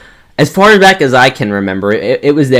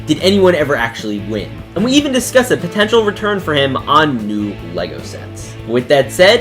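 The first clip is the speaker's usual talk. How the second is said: presenter's voice-over with lively rises and falls; scripted video intro; 3 dB quieter than usual. Acted. Host introduces the Lego Win Kid interview to viewers, scripted intro read. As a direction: narrate it like an online video host.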